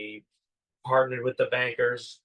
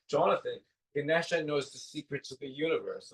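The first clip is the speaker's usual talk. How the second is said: softly imitated English accent; 3 semitones higher, 5 dB quieter than usual. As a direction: quote the coach in a put-on English accent. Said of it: "in his English accent".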